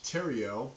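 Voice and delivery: Theriot said clearly, silent letters dropped; Theriot, said as the correct version; name pronounced. Shown as a demonstration. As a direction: give Theriot its proper French-style sound. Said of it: "all that is pronounced".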